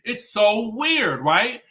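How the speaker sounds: high, laughing freak-out; mock panic through giggles; giggly speaker. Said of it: "the speaker is laughing or smiling the entire time".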